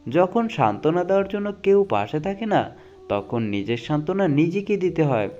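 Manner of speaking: dramatic reading of life quotes; motivational quote recitation. Acted. Reading life advice to viewers, earnest dramatic recitation. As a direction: recite each saying like a moving lesson.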